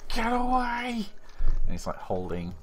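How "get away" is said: high, loud bellow of a panicked guard. Acted. Security guard bellowing at intruders, loud and high. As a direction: bark it out to scare them off. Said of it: "just, like, bellows at you".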